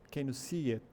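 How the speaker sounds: "see" with lengthened ee; long vowel. Shown as a demonstration. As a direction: hold the ee in "see". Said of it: "ele é um som mais alongado".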